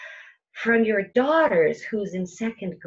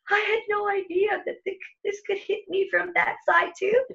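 pitched way up in shocked disbelief; astonished realization; 12 semitones higher than usual. Retold or imitated. Listener blindsided by trouble from every side, high astonished voice. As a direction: squeak out the shock of being blindsided.

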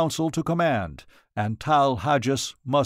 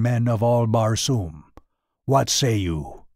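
green warrior chief; 2 semitones lower than usual. Acted. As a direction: address the council with grave authority. Tars Tarkas addresses the council.

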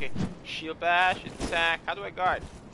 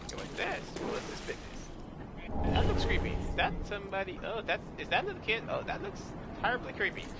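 scared horror game streamer; 8 dB quieter than usual. Real, not acted. Creepy figure in game.

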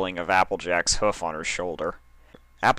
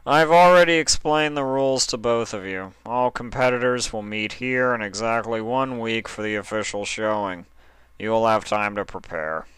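distracted; 3 semitones higher than usual. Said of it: "Mister Gray said distractedly".

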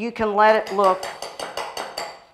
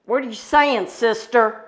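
playfully challenging, pitched up; mock indignant; 3 semitones higher than usual. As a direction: pretend to take offence at a teasing friend. Playful challenge to accent remark.

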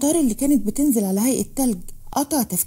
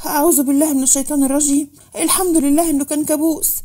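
higher, breathless relief after a nightmare; shaken awake; 4 semitones higher than usual. Acted. Rahma waking from a nightmare, frightened then relieved. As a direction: gasp out the prayer, still shaking. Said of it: "بتتنفض من الخوف".

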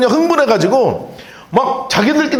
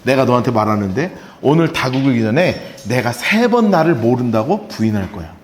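Jesus, calm and low; 10 semitones lower than usual. Retold or imitated. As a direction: say it gently, knowing the betrayal. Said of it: "예수님이 뭐라 그러시냐면".

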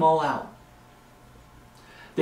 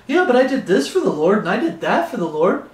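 higher, whiny mock excuse; 3 semitones higher than usual. Preacher voicing a compromising believer, higher mock whine. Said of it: "when you start compromising".

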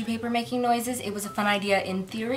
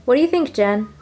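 calling out; 2 semitones higher, 9 dB louder than usual. Real, not acted. Talking to the dog.

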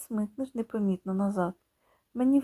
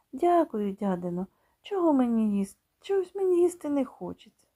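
put-on higher, shy boy voice; polite refusal; 4 semitones higher than usual. Boy politely declining the aunt's pie, higher and shy. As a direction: refuse politely, holding back.

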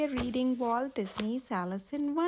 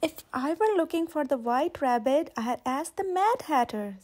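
grinning Cheshire cat. Acted. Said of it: "said a grinning Cheshire cat".

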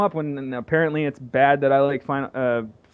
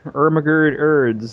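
ermagerd meme voice; 4 dB louder, slower than usual. Pretend. Meme voice joke.

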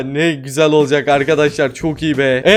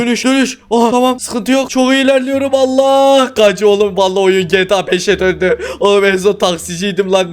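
being chased; 2 semitones higher than usual. Real, not acted. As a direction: panic as the cops close in. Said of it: "polisler şu anda beni kovalıyor".

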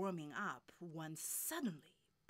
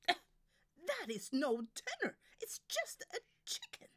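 very high-pitched jeer; mock the performer from the audience; mocking heckler; 12 semitones higher, 7 dB louder than usual. Audience member jeers.

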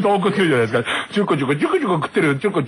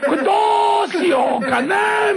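困った心の声; 12 semitones higher, slower than usual. Retold or imitated. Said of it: "みたいな".

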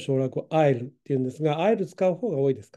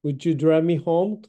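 slow polite request; 3 dB louder, slower than usual. Shown as a demonstration. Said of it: "would youだともっと丁寧".

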